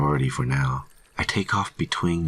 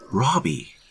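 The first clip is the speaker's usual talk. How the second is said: high-pitched shouted name; 11 semitones higher than usual. A narrator's reading. Hunter calling to distracted colleague, high shout. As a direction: call out sharply to get his attention. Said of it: "I shouted at him".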